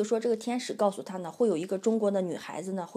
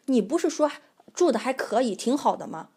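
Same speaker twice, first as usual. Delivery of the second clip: a touch of a shaking, angry landlord; mock angry landlord; 3 semitones higher, 4 dB louder than usual. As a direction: throw his words back at her. Retells angry landlord's retort.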